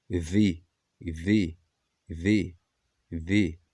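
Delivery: "the" as "thee", repeated separately; the before vowels. Shown as a demonstration. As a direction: drill "the" with a long "ee" vowel. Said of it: "sendo assim nós pronunciamos o".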